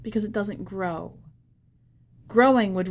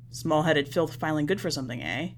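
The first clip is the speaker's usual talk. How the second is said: lower, quick scornful jab; sneering alien; 5 semitones lower, faster than usual. Acted. Hunan businessman mocking the Earthian child to the envoy, low sneer. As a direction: sneer down at the filth.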